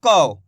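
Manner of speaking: कौ said low and loud with au; model syllable kau. Shown as a demonstration. Teacher models कौ for students. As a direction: drop low and say कौ with an open au. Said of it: "औ की मात्रा है इसके अंदर".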